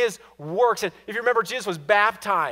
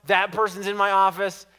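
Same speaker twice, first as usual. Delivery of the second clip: mock grumbling; 3 semitones higher, 6 dB louder than usual. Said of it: "it's like".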